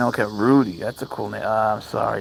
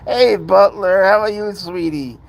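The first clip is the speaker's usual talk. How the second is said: higher and louder, cooing sing-song; 9 semitones higher, 6 dB louder than usual. Real, not acted. Cooing to cat Butler.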